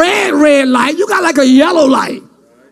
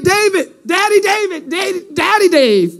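whiny sick son. Acted. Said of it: "He ran to David".

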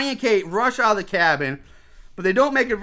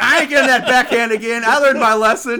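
louder sassy retort, playfully mocking; sassy attitude; 2 semitones higher, 6 dB louder than usual. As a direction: toss it off with sass.

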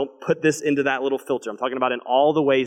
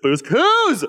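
put-on high, loud wailing toddler plea; crying toddler; 11 semitones higher, 6 dB louder than usual. Father imitating his crying toddler begging for her show. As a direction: wail it like a toddler in tears. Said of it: "She's like".

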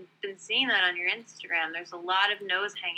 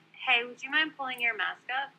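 higher-pitched, courteous suggestion; polite request; 5 semitones higher than usual. Pretend. Co-host suggesting what to say to shoppers, mock-polite request. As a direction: model a nicer way of asking. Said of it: "there's no politeness at this point".

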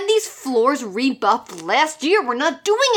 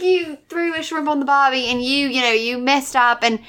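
put-on Australian accent. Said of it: "Emma, please stop".

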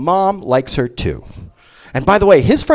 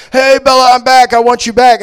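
Edward returning; 8 semitones higher, 5 dB louder than usual. Acted. Edward voiced, lovestruck return.

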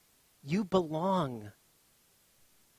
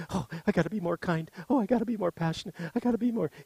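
quick, fretful mock resolutions; imitating anxious religious effort; mock striving; 2 semitones higher, much faster than usual. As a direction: rattle off self-imposed duties in a hurry. Mimicking people straining to be virtuous.

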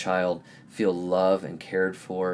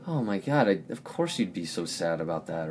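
sympathize gently, as a caring parent would; compassionate. Retold or imitated. Parent comforting a rejected child, compassionately. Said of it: "the parent with great compassion says".

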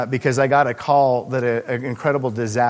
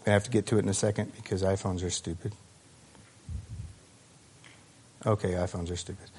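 much softer, quick grumble at the phone; a preacher searching for a verse, mutters an aside; muttered aside; 6 semitones lower, 11 dB quieter, faster than usual. Real, not acted. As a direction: grumble under your breath at the phone. Aside while fumbling with phone.

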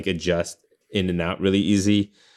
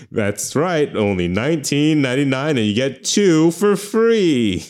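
high, eager pitchman voice; hard-sell the deal, TV ad style; infomercial; 7 semitones higher, 4 dB louder than usual. Pretend. Continues mock commercial.

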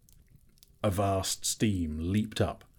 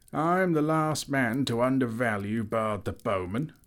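wary; 5 semitones higher than usual. A narrator's reading. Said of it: "said the master warily".

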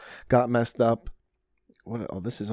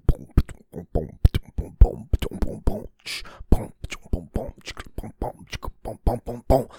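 beatboxed bass thump. Shown as a demonstration. Showing car lights pulsing to music, whispered beat. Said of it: "they go with the fucking music".

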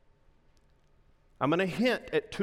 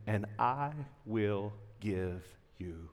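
hushed promise; 9 semitones lower, 6 dB quieter, slower than usual. Acted. Quoting Jesus, voice drops low.

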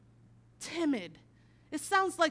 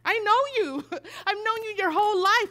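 raised voice, pressing and firm; insistent mom; 4 semitones higher, 4 dB louder than usual. Retold or imitated. Mother insisting to son, raised voice. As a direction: drive the truth home to him. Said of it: "And I'm like, Leo".

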